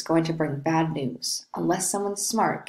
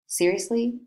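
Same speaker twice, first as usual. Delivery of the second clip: incredulous echo; 4 semitones higher than usual. Acted. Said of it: "You mean I should groan".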